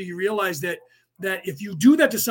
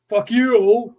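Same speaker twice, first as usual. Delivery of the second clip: a louder mock curse at the other driver; angry driver; 3 semitones higher, 7 dB louder than usual. Imagined driver cursing at you on the road, mock angry. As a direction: spit it out like an offended driver. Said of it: "they looked at me and said".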